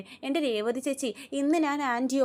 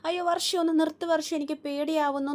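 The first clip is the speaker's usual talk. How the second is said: higher, frightened plea to stop; mock-panicked begging, pitched up; scared cry; 5 semitones higher than usual. Revathi begging Varsha to stop the ghost film, scared. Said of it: "ഒച്ച വെക്കുവാണേ".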